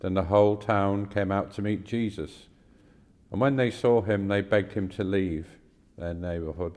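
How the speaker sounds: measured, clearly projected Bible reading; scripture reading. Acted. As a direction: read the passage aloud formally, pausing between phrases. Reads a scripture passage aloud.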